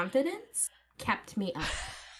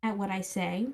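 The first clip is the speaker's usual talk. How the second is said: put-on Valley girl accent. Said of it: "it didn't like the Valley Girl accent".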